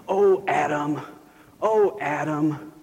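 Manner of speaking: mild mock complaining groan; a lightly voiced weary lumberjack moaning. Lumberjack grumbling at each tree stroke, mock complaining. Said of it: "he'd say in a complaining voice".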